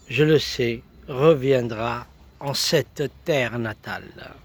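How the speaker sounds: measured, emphatic verse reading; poetry recital. Acted. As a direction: recite the poem phrase by phrase. Recites a poem.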